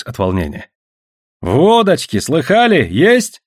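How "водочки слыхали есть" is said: high, eager questioning; keen chorus of companions, voiced high; eagerly chiming in. A narrator's reading. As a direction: jump in after your friend, pitched up. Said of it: "подхватили его товарищи".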